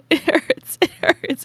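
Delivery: high, strained whimper of hurt; mock pained squeal; whiny pained quote. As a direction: squeal it like your mouth is on fire. Retold pain eating hot curry.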